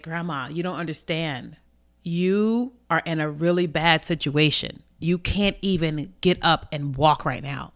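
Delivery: calmly reasoning with a grandmother; slowing slightly to spell it out gently but firmly; measured, retold plea to grandma. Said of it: "talking with her calmly".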